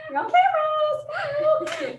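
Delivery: high, slow sing-song warning; mock sing-song you're on camera. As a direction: stretch it out high, like teasing. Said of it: "I was like".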